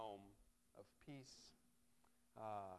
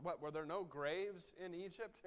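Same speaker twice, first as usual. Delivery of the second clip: higher mock question, rising scoff; ironic; 5 semitones higher, 5 dB louder than usual. Preacher replaying the Israelites' complaint, ironic scoff. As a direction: ask it with amused irony. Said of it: "the irony of them crying out".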